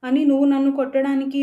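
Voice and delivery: hurt, furious protest at her brother; shocked and angry after being slapped. Acted. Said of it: "అన్నయ్య వైపు కోపంగా".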